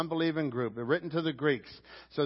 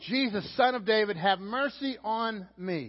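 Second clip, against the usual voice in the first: higher, slowing plea, only lightly raised; mild mock shout; 4 semitones higher than usual. Blind man appealing to Jesus, mildly raised call. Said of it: "he's shouting to him".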